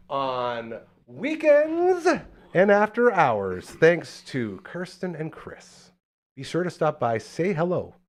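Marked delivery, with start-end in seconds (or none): 0.1-5.9 stretched ad read. Acted.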